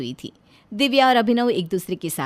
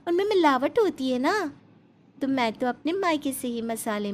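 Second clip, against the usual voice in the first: put-on sweet young bride; 4 semitones higher than usual. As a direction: explain innocently to the mother-in-law. Urmila explains her mother's spices. (भोली बहू की मीठी ऊँची आवाज़)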